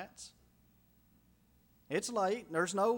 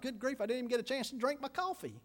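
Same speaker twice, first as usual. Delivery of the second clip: quick, higher, fed-up complaint; exasperated grumble; 5 semitones higher, 3 dB quieter, faster than usual. Retold or imitated. Preacher voices a rattled guard, fast exasperated grumble.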